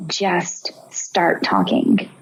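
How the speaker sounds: slow whispered self-urging. Retold or imitated. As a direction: breathe the words out, slowly. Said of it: "I'm just repeating to myself".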